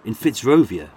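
put-on a Brummie putting on a posh narrator's accent; pretend posh. Tour guide describing the Fitzrovia streets, pretend posh. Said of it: "pretending to be posh".

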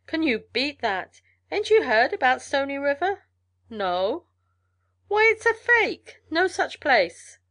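high, loud, incredulous trail man; amused mail carrier. Acted. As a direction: scoff loudly at the news, pitched well up. Mail carrier scoffs at rumour.

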